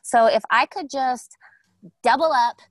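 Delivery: lightly put-on totally-tubular guest voice; eighties guest character. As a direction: lean hard on key words like an eighties teen.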